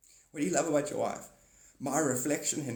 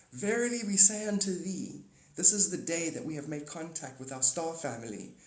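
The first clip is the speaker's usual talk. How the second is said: alien proclamation; 3 semitones higher than usual. Retold or imitated. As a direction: proclaim first contact grandly. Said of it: "Say it loudly".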